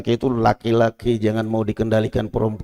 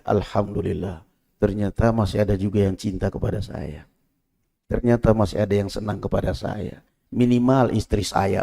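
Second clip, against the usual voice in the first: quiet gratitude; 2 semitones lower, 4 dB quieter than usual. Acted. Grateful believer's inner voice.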